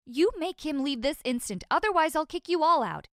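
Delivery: rising to an angry shout; furious ultimatum. Acted. Mom furious about man in basement.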